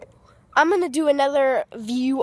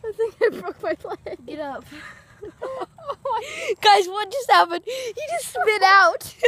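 sledding downhill; 7 semitones higher, slower than usual. Real, not acted. Riding fast down the hill.

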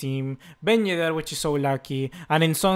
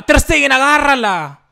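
higher, louder desperate plea; high desperate scream; 8 semitones higher, 11 dB louder than usual. Real, not acted. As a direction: scream for the save. Repeated plea more desperate.

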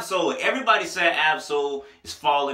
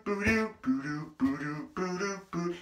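beat imitation; 3 semitones higher, 8 dB quieter, slower than usual. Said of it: "the way the beat was just so boo-doo".

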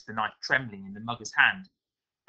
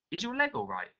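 put-on boy voice; 12 semitones higher than usual. A narrator's reading. Daniel voiced, boy asking.

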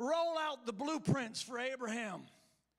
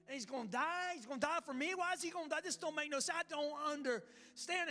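baffled protest; 3 semitones higher than usual. Acted. Abraham questioning God about sending his son, baffled protest. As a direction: protest in puzzled, rising questions.

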